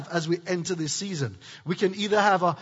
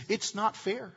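mock whiner; 9 dB quieter than usual. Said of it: "a whiner's favorite phrase is".

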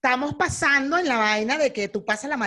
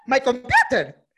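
louder, exaggerated baffled question; mock disbelief; 5 dB louder, slower than usual. Traveler repeating the gringo's demand back, hammed-up bafflement. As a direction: hit it hard, acting taken aback.

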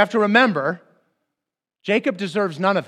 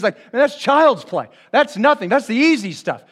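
higher, dismissive imitation; unimpressed; 4 semitones higher, 4 dB louder than usual. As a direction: brush it off as nothing, with energy. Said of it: "Jesus is the one who's unimpressed".

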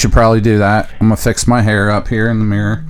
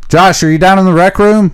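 calling out; 5 semitones higher than usual. Acted. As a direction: call down to the rec room. Looking for Josh in the lab.

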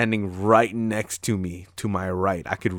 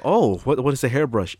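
mock asker; 4 semitones higher, 4 dB louder than usual. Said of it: "his responses are like this".

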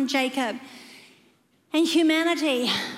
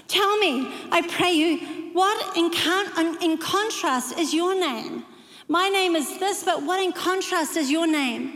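aha moment; 5 semitones higher than usual. Acted. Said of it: "He's having, having an aha moment".

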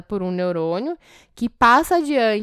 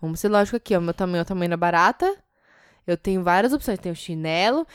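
mock self-calming; 4 semitones lower than usual. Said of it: "você não vai falar".

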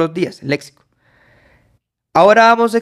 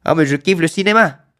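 casual French example. Shown as a demonstration. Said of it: "me agradas".

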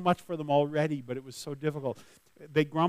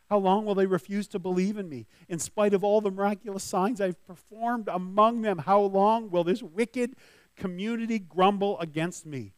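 louder and higher, indignant booming voice; God's angry complaint; 5 semitones higher, 6 dB louder than usual. Acted. The Lord rebukes Moses about grumbling Israelites, loud and indignant. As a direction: thunder it like a wronged God. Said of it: "The Lord said to Moses".

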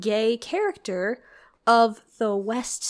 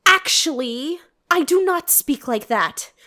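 louder, higher prissy proper voice; mock prim voice; 3 semitones higher, 4 dB louder than usual. Retelling the girl's odd confession, mock prim. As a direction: send up a prim girl. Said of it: "is like".

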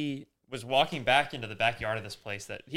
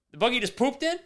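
retold disbelief; 11 semitones higher, 3 dB louder than usual. Disgusted retold question.

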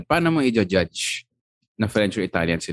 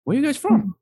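put-on high, friendly American accent; a chatty American tourist in an American accent; imitating an American accent in the elevator; 4 dB louder than usual. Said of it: "tatanungin ka talaga".

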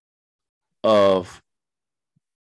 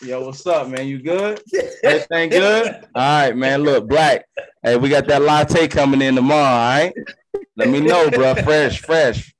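street hustler pitch. Retold or imitated. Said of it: "sliding to people like".

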